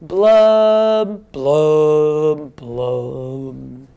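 put-on kids join in blowing fish bubbles; fish blub blubs. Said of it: "I need your help with".

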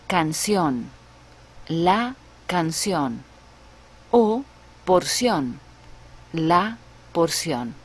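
canción said kan-SYON; porción with a tapped r, por-SYON; Spanish pronunciation. Shown as a demonstration. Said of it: "For example".

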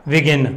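"begin" with the weight on its ending "gin"; stress on last syllable. Shown as a demonstration. Teacher showing why N doubles, stress on end of "begin". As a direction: press the second syllable of "begin". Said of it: "ਉਹ 'ਤੇ ਜ਼ਿਆਦਾ ਜ਼ੋਰ ਪੈ ਰਿਹਾ".

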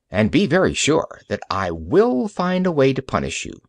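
stern doctor. Acted. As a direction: lay down the law to a pirate. Doctor warns the pirate.

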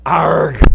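gruff pirate "Arg!"; pirate growl. Pretend. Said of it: "sounding like a pirate".

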